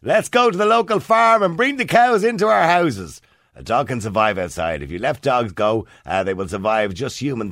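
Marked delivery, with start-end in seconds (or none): 0.0-3.2 sarcastic. Retold or imitated. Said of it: "Somebody says".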